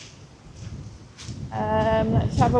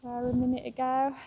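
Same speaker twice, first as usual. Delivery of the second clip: heavy breathing; 8 dB quieter than usual. Real, not acted. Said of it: "Sorry about the heavy breathing".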